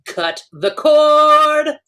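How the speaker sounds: high, slow, booming slogan; ad slogan shout. Pretend. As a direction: belt it like a TV ad tagline. Mock ad slogan callout.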